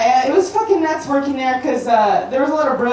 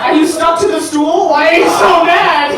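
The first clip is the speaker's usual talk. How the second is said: I was like; 7 semitones higher, 6 dB louder than usual. Retold or imitated. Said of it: "I was like".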